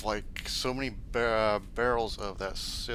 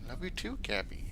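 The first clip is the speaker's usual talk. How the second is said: whisper; 9 semitones higher, 4 dB quieter than usual. Real, not acted. Whispering to pet Cappy.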